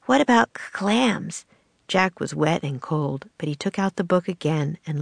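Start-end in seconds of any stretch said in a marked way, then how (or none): 0.1-1.5 stammering through chattering teeth. Acted. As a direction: shiver it out, cold and soaked. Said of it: "her teeth chattering".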